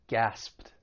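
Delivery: "Gasped" ending in a crisp, voiceless pt; teacher's model of "Gasped", one syllable, T at the end. Shown as a demonstration. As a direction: release a clear T after the P in "Gasped". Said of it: "the E D is going to take on a T sound".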